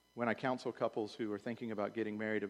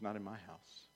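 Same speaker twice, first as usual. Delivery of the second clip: Scottish uncle; 5 semitones lower, 13 dB quieter than usual. Retold or imitated. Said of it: "He goes".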